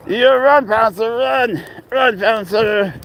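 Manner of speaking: high, loud call to the cat to run; excited call urging the cat on. Real, not acted. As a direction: shout him on across the yard.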